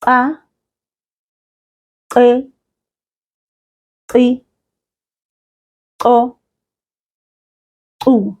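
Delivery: "Ka, qi, qi, qo, qu" each with a sharp tongue click; click syllables. Shown as a demonstration. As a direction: click every syllable "Ka, qi, qi, qo, qu" slowly. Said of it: "try that one more time".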